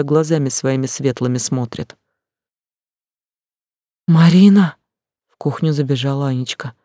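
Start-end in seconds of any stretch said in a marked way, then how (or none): 4.1-4.8 loud call from the doorway; louder cry of a frightened girl. A narrator's reading. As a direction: call her name, alarmed. Girl runs in calling.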